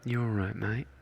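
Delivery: casual Australian greeting; Aussie accent. Shown as a demonstration. Trying out accents for viewers, Aussie accent. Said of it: "That sounds more Aussie".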